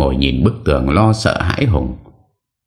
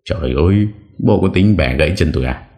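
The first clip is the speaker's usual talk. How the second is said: crying out in pain; 3 semitones higher than usual. Acted. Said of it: "Hoàng la lên".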